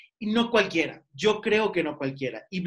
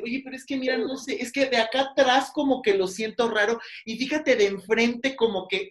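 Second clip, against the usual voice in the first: higher, acted timid client protest; hesitant complaint; 4 semitones higher than usual. Client timidly complaining to the stylist, hesitant. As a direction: tentatively voice an unhappy customer. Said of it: "que no sientes ni siquiera esa confianza para decir".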